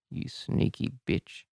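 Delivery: slow, voiceless sneaky whisper. A narrator's reading. Whispering across the room to Finn, slow whisper. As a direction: whisper it from the corner of the mouth. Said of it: "whisper from the corner of my mouth".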